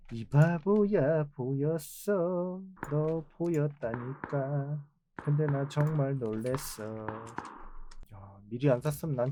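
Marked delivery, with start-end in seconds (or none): 0.1-4.9 taunting. Real, not acted. Taunting the enemy he killed.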